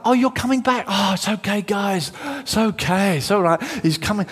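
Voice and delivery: high sigh of relief, settling as it goes; calm the others after a scare; relieved reassurance. Acted. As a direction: act out sudden breathy relief. Simon Peter relieved, calming the others.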